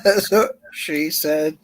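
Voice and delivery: slow, through a mouthful of water; words through a mouth of water; water held in mouth. Real, not acted. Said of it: "hold water in my mouth".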